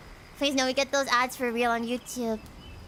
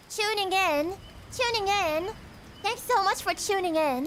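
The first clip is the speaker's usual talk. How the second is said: higher-pitched, put-on British accent; playful British accent, pitched up; 5 semitones higher than usual. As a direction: practise British "tuning", lifted in pitch. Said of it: "I don't think my accent is perfect".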